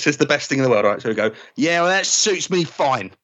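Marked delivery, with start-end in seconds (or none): 1.6-3.1 sulky Ben. Shown as a demonstration. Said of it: "I'll be Ben storming off".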